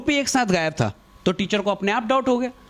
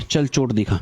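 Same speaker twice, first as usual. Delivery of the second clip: low, curt order from an annoyed teacher; curt stern teacher; 10 semitones lower than usual. Retold or imitated. Angry principal demanding to see the injury, low and curt. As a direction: drop the voice low and snap it out. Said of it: "पर ma'am गुस्से में थी".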